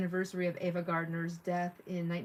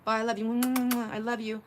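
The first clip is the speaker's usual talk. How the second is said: louder, higher smacking kisses with I love yous; hammed-up mom blowing kisses to her daughter; gushing goodbye, kisses and all; mock goodbye kisses; 5 semitones higher, 5 dB louder than usual. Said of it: "And we always like".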